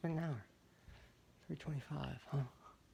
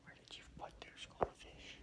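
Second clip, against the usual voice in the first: whispering; 7 dB quieter than usual. Real, not acted. Whispering, searching for goldfish at night.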